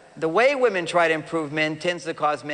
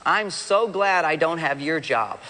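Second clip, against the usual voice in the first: wife's light teasing; slower than usual. Retold or imitated. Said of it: "she says".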